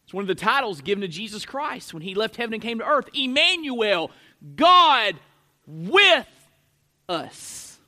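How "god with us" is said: slow, separated words, hushed on "us"; word-by-word emphasis. Real, not acted. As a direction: punch each word apart, then let "us" fall away. Preacher spells out the name Emmanuel.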